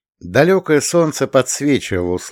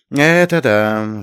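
slow, pleased concession; drawn-out, contented assent; smiling agreement; much slower than usual. A narrator's reading. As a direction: agree through a spreading smile. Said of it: "заулыбался Андрей".

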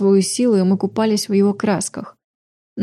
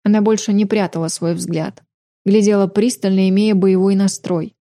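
ordinary delivery

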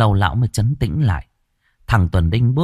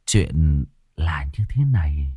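whispering; 5 semitones lower, slower than usual. Acted. Peasant whispering the secret to the chief, whispering. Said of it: "Thằng này thì thào".

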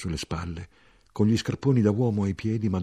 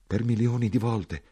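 "per milioni di volte" repeated in the narrator's own voice, a touch higher; stunned echo; 4 semitones higher than usual. Acted. The narrator repeating the soldier's words in disbelief.

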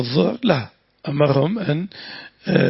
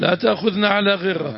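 earnest prayer aloud in a sustained tone; supplication; 3 semitones higher than usual. Real, not acted. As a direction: lead the listeners in a plea to God. Teacher continues the supplication.

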